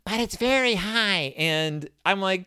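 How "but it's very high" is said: a high put-on squeak, a bit less extreme; mock high voice. Reviewer retries the narrator's Brother voice, high mock squeak. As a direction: try the silly high voice once more. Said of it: "I can't remember exactly how it goes now".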